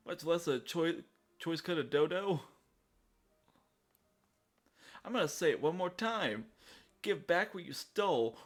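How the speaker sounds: lightly voiced threatening thug; menacing thug. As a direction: threaten the thief. Voicing thug NPC.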